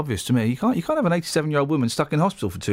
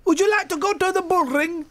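high, hammed-up Brummie voice; sing-song Birmingham tune, pitched well up; mock Brummie asking Pamela out; Birmingham accent; 11 semitones higher than usual. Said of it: "where is Pamela from? Birmingham".

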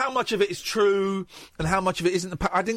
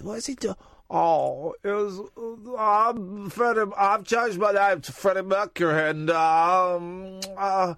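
lightly voiced singer with big false teeth; a hint of a toothy singer; impression of a singer; slower than usual. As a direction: talk round oversized front teeth. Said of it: "That impression sounds exactly like my friend's boyfriend".

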